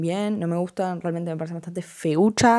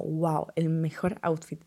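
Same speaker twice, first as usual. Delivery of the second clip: a sarcastic mock admirer; mocking wow; slower than usual. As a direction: sneer at the jogging fans' pride. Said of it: "piensa que es como".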